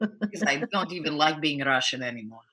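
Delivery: lightly put-on Russian accent, mocking. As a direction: play a grumpy Russian with a mild accent. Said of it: "your accent is so fucking bad".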